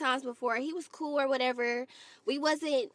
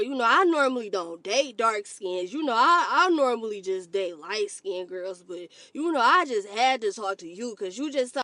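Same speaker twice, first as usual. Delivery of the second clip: mock suitor voice; 3 semitones lower than usual. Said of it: "I don't wanna hear".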